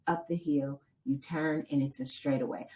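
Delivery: quiet imitation of husband's guidance; soft reassurance. Husband telling runner exactly what is left, imitated soft reassurance. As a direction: talk them through it softly, step by step.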